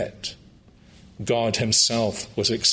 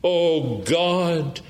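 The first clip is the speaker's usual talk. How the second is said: fervent plea; 4 semitones higher than usual. Acted. Tax collector's prayer retold passionately.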